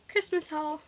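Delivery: excited announcement. Acted. Announcing video segment.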